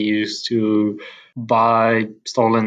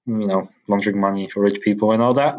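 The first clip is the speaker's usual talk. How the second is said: laughing; 2 semitones lower, faster than usual. Real, not acted. Jokes about laundering money, laughs.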